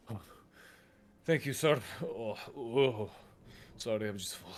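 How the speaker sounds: lightly acted diner, stuffed and grateful; overfull diner. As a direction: groan a little thanks through a full belly.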